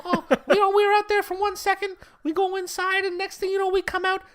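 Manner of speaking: put-on Eastern European accent. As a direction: tell the stolen-barbecue story in a shrill put-on Eastern European accent. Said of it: "Eastern European accent".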